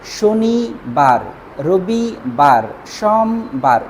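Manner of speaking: very slow, stretched শনিবার, রবিবার; teacher slowly sounding out the days in Bangla; drawn-out listing. Shown as a demonstration. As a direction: recite the days slowly like a chant. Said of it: "Bangla ভাষায় যখন পড়ি".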